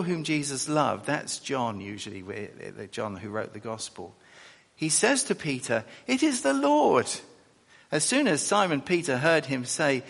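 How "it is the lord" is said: high, raised cry of recognition; high, excited announcement. Acted. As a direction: blurt it out as you realise who it is. Disciple voiced in Gospel reading.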